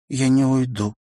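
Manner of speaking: usual speaking voice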